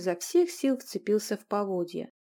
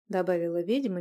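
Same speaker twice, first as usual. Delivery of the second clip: ordinary delivery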